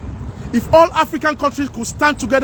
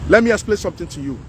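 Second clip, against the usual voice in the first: "Let me explain something to you" rushed out faster; faster repeat; 4 semitones lower, faster than usual. Real, not acted. Vlogger presses his point on viewers, faster. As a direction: hurry the repeat, pushing on.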